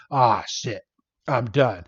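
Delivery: low, soft, resigned acted line; mock defeat. Mewtwo knocked into a pillar, acted giving up. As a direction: let it sink as if beaten.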